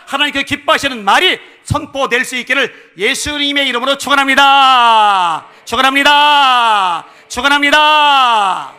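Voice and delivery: very loud blessing with stretched final words; full-force preached blessing. Acted. Preacher blessing the congregation's words, shouted benediction. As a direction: shout the benediction, drawing out each closing word.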